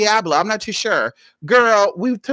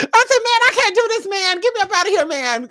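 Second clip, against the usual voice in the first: tearful plea to God; 11 semitones higher than usual. Retold or imitated. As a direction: beg God through tears. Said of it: "I was talking to God like that".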